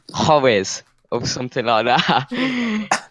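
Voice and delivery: slow, mock Mexican accent on Juarez. Shown as a demonstration. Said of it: "Excuse my, uh, quite poor, um, Mexican accent".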